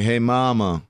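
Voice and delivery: loose-tongued Louisiana drawl; lazy Louisiana accent. Shown as a demonstration. Showing how hometown folks greet mama, lazy Louisiana accent. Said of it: "we just kinda sound like".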